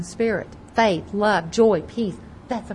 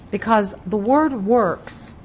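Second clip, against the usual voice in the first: works drawn out slowly and leaned on; slow down and land hard on works; teacherly weight on the word works; stress on works; 5 dB louder, slower than usual. Shown as a demonstration. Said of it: "I want to stress the word works".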